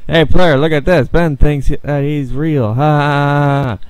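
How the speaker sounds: 1 mocking game villain. Taunting game character voice.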